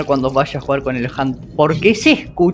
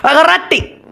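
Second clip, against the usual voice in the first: much higher, yelled command at the character; panicked shout; 13 semitones higher, slower than usual. Real, not acted. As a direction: scream it in a panic. Desperate moment in game.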